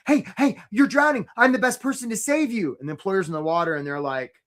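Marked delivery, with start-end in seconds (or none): 0.1-2.8 pushy pitch. Retold or imitated. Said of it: "they're gonna be like".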